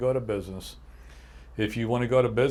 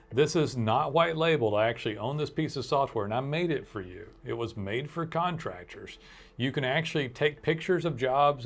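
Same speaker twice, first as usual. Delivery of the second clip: upbeat, pitched-up ad read; 3 semitones higher than usual. Acted. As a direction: sell it like a radio spot. Reads an ad for Data Pins.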